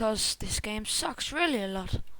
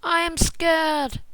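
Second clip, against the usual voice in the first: slow, drawn-out cry; slow, emphatic declaration of fright; scared holler; 2 semitones higher, 4 dB louder, slower than usual. Real, not acted. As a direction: stretch each word in alarm. Declares fear while fleeing.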